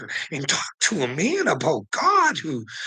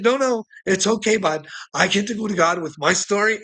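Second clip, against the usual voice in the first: taunting; 6 semitones higher than usual. Retold or imitated. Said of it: "I'm like".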